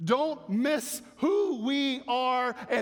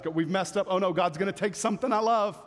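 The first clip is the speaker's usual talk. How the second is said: mock panic. Preacher mimicking panicked believers, mock frantic alarm. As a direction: ham up a frantic sinner. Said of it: "we think that's what God desires".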